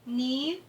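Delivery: "Menino" as me... ni... no, long gaps; separated syllables. Shown as a demonstration. Teacher separating the word for pupils, syllable by syllable. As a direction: leave a long pause after each syllable of "Menino". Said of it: "Você vai separar da mesma forma".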